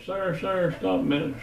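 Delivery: high, eager sir sir; calling out. Retold or imitated. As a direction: flag him down across the lot. Lady calling out to him.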